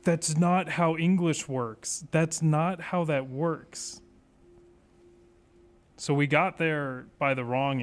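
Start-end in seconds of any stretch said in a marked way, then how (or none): 0.0-4.0 slow, drawn-out disbelief; exasperated. Real, not acted. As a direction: spell it out slowly in exasperation. Exasperated at bad puzzle logic.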